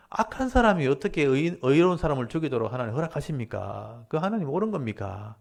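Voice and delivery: confronting, protesting question; challenging God. Retold or imitated. Prophet asks God why the righteous are killed, challenging. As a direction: question it as an aggrieved accuser. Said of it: "그렇게 따지는 거예요".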